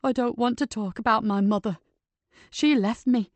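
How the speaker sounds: anguished protest. Acted. Patrick shouts from collapsed cottage.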